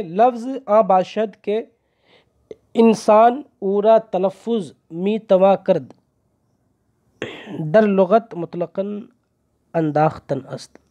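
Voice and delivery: each word read out slowly for the class; slow dictation reading. Shown as a demonstration. Teacher reading the Persian text slowly to students. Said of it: "اب آگے دیکھیں".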